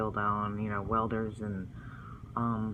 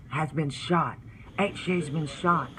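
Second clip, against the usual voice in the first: raised, higher cry of alarm, not a full scream; retold scream; 5 semitones higher than usual. Mother seeing her son shot, a restrained retold scream. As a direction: call out the shocking news, pitched up. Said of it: "and she screamed".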